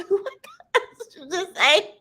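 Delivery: very high, squealed mock disbelief; shocked mother. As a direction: act out a mother who can't believe her ears. Shocked mother retold to toddler.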